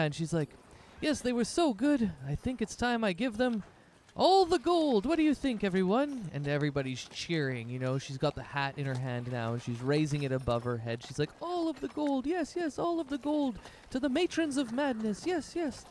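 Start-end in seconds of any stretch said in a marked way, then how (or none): 1.0-6.3 rally the crowd like a stage host; hyped announcer. Acted. Dancer hyping the crowd after the show, high announcer call. Celia offers the party's gold. 11.4-15.9 rally the crowd like a stage host; hyped announcer. Acted. Dancer hyping the crowd after the show, high announcer call. Celia raises the hat of gold.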